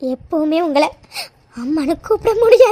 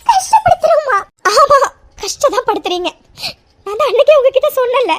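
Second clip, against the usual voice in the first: tearful. Acted. Daughter accusing mother.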